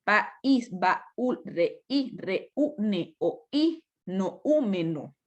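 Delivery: words like "País" broken into pa, ÍS; syllable-by-syllable list, "País" to "noúmeno"; hiatus. Shown as a demonstration. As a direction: pause before each stressed vowel, as in "baúl" ba-ÚL. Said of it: "la parte de la pronunciación".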